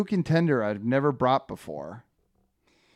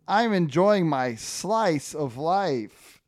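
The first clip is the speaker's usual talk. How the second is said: higher, stretched-out pun; lightly voiced pepperoni Ernie; 5 semitones higher, slower than usual. Ernie replies to Frank, lightly hammed-up contentment. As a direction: savor the punchline slowly. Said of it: "And Ernie goes".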